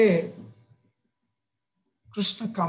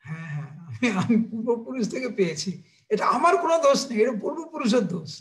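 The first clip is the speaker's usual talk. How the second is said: put-on little boy passing the blame; innocent child; 2 semitones higher than usual. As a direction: deny all blame like a small boy. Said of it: "কৃষ্ণের মনোভাব".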